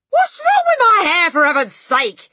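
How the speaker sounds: loud, high-pitched indignant yell; exasperated shout. A narrator's reading. Father to shrieking wife, exasperated shout. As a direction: snap back loudly, fed up.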